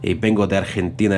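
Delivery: a light imitation of an Argentine accent. Learner mimicking how Argentines sound, Argentine accent. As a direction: lightly put on Argentine lilt. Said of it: "aunque tengan ese".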